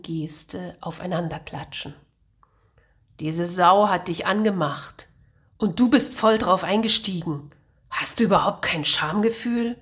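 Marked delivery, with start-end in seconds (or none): 3.2-9.8 jealous anger. Acted. Jealous Martin accuses Angel.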